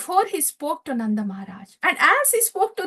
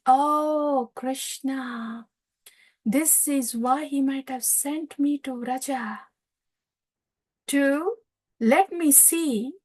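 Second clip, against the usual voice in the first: slow reflection; slower than usual. Retold or imitated. Uddhava's slow reflective realization.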